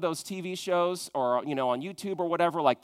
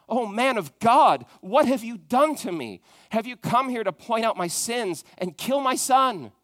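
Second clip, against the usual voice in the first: pleading widow; 4 semitones higher, 4 dB louder than usual. Retold or imitated. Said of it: "And then she said to Elijah".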